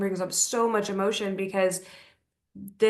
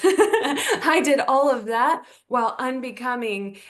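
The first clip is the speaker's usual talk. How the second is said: laughing; 4 semitones higher, 5 dB louder than usual. Real, not acted. Laughing at own story.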